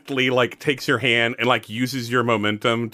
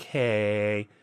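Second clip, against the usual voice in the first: Michael; 3 semitones lower, 4 dB quieter, much slower than usual. Acted. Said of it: "I gotta remember his voice".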